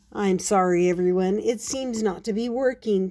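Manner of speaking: a touch of disappointment; understated storybook sadness; sad apology. Acted. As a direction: apologise to the audience, mildly let down. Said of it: "Paddington said sadly".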